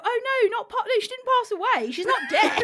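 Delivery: mock outraged. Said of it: "what if they go".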